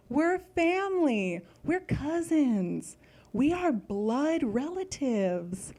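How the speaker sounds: put-on earnest talk to kid. Kneels to explain to child.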